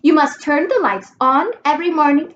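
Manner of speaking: "must" held long, each word spelled out; slow repeated instruction. Acted. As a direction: repeat it slowly like to a slow pupil. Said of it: "I'll repeat myself only one more time".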